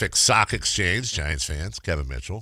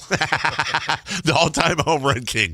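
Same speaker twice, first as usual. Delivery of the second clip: announcer intro; 5 semitones higher, slower than usual. Pretend. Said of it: "That's how you should have introduced him".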